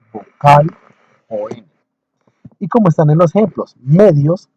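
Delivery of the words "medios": "medios" with the stress on "me"; stress on first syllable. Shown as a demonstration. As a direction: lean on the "me" of "medios". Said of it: "tiene el acento en la me".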